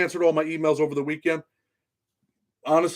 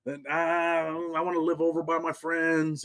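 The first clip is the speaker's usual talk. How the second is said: mother's voice; 3 semitones higher, 3 dB quieter, slower than usual. Retold or imitated. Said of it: "It's always like".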